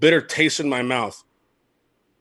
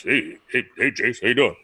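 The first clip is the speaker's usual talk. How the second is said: Jim Leyland impression; 3 semitones lower than usual. Manager greeting his former player, low muted impression. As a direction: imitate an old skipper's low, muted hello. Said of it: "That's how he talks".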